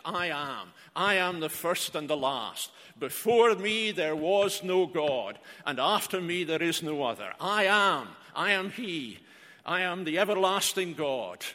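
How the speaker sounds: 1 solemn divine voice. Acted. Voices Jehovah in Isaiah.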